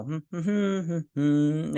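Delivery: high little hums; imitated humming. Recapping how the captain reacts, imitated humming. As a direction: hum in short knowing bursts, mimicking him.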